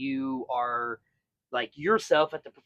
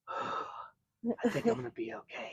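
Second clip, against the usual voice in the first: put-on slow, high, soft kid voice; shaky little kid; 6 semitones higher, 11 dB quieter, slower than usual. Fallen kid collecting himself, slow high and soft. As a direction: brave it out after a sigh. Kid after sigh, recovering.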